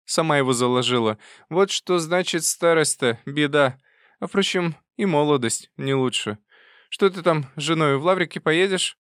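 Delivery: put-on loud triumphant old aunt; bustling old aunt. A narrator's reading. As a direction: burst in relieved, old-lady voice.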